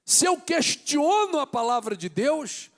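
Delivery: loud, high, impassioned preacher shouting to the church; fervent sermon climax, nearly shouted; preaching at full force. Acted. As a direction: build to fiery pulpit preaching, hammering each phrase.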